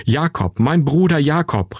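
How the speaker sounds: a brother crying out in joy before the tears come; joyful cry. A narrator's reading. Esau runs to his brother Jakob and calls out joyfully. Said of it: "rief er und begann laut und haltlos zu weinen".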